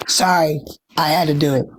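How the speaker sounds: hoarse, lost-voice whisper; sick voice, barely there; raspy whisper. Real, not acted. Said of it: "I have no voice 'cause I'm sick".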